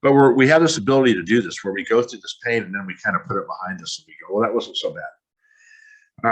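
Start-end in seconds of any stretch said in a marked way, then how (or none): 4.3-6.3 slow, drawn-out mock nonchalance; lightly acted shrugging it off; slow dismissive shrug. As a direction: stretch it out like the pain never mattered. Everyone shrugging off past pain.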